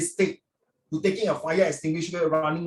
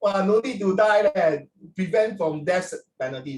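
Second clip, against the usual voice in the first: mock-amazed sarcastic cheer, louder; 4 semitones higher, 4 dB louder than usual. Uncle imitating sarcastic netizens about the drug case, mocking cheer. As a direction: imitate online commenters jeering with fake delight. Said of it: "then people very sarcastic".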